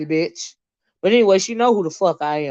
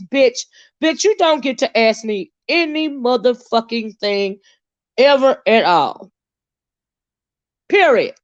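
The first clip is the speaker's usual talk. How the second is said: much higher with a hard final word; irritated rant; 4 semitones higher than usual. Real, not acted. Streamer scolding a viewer who asked a question, angry rant. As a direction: tear into the viewer, building. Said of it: "that really irritated me".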